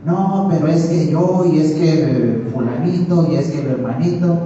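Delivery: lightly acted whiny back-talk; mock grumbling. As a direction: protest like a scolded child making excuses. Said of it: "Rezongando por lo que se le está diciendo". (rezongando, con tono de queja fingida)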